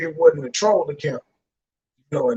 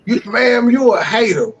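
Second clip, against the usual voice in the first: louder, pointed call-out; loud accusation; 4 semitones higher, 6 dB louder than usual. Real, not acted. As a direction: jab the words at them. Calling someone a hater.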